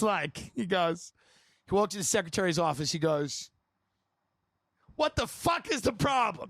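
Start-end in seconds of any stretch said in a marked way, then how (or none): 5.0-6.5 high-pitched mock yell; angry boss-baiting yell. Salesman hollering at the office secretary, mock yell. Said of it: "That's the way he used to".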